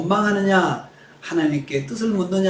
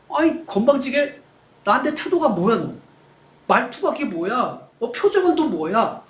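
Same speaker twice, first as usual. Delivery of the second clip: acted wrath; 5 semitones higher than usual. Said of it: "진노하셔야 된다고 생각해요".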